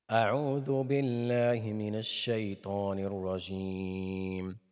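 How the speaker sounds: تلاوة مرتلة; Quran recitation. Shown as a demonstration.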